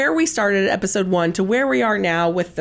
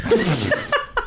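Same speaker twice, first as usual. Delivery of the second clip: spit take. Real, not acted. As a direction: laugh that sprays a mouthful. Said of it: "Oh my God, I spat everywhere".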